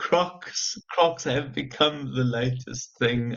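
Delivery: talking through laughter. Answering the other speaker, laughing while talking. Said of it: "sorry, I'm laughing".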